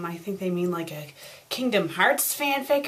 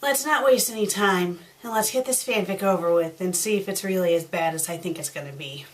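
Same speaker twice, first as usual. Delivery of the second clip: normal talking voice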